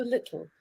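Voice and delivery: "little" with the t dropped and air puffed out the sides; "little" said with a soft puff of air through the tongue's sides; lateral plosion little. Shown as a demonstration. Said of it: "a little air coming out".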